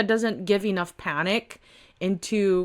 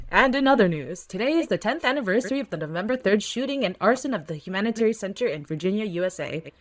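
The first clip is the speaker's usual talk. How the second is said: steady newscaster read; news read. Acted. Reading the comic's news report as a newscaster. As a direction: read it like an anchor on the evening news.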